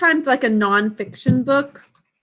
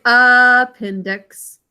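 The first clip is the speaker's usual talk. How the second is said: slow model pronunciation; 4 dB louder, much slower than usual. Shown as a demonstration. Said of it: "We pronounce it".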